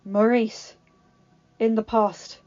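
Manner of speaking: a hint of the beast, honest and sorry; lightly voiced sincere beast. Beast apologises to Maurice.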